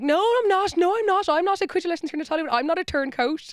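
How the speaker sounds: high-pitched mock protest; protesting denial. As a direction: deny it in a hammed-up high voice.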